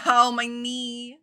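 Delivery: slow pained ow. Real, not acted. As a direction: wince through a hurt knee. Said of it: "I gave myself an ow".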